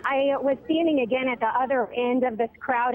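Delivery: breathless after sprinting; winded, catching breath. Real, not acted. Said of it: "oh my gosh, I'm out of breath a little bit".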